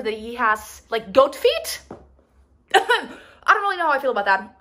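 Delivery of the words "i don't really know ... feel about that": laughing while speaking. Real, not acted. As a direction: giggle through the words. Laughing at goat feet.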